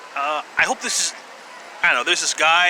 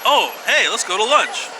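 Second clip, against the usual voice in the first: chirpy lady; 7 semitones higher than usual. Retold or imitated. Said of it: "she's like".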